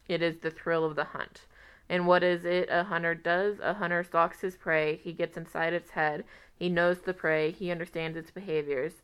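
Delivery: letter read aloud, lightly voiced; reading a love letter. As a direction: read it like a heartfelt old letter.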